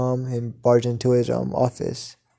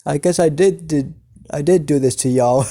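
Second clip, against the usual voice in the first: amused villain; 2 semitones higher than usual. Acted. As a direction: own up with a touch of glee. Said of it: "as he laughs".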